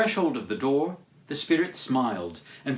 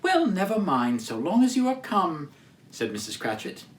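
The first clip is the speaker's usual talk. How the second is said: fond mother; 2 semitones higher than usual. Acted. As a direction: greet her like a doting mother. Mrs Cratchit fusses.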